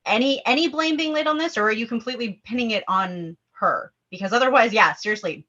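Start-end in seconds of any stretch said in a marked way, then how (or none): 0.0-3.9 fast, pointed, getting up in her face; indignant confrontation. Acted. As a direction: challenge her, pitch jumping up on who. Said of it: "a woman getting up in your face".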